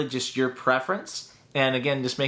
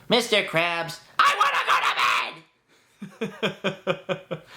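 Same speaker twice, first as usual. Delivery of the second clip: cartoon sponge yelling he wants bed; whiny SpongeBob shout; 6 semitones higher than usual. Shown as a demonstration. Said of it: "SpongeBob demo".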